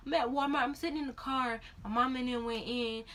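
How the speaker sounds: slightly high, mock-weepy voice; re-enacted tearful explanation; imitated tearfulness. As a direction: report it through mild pretend sniffles. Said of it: "I was still crying".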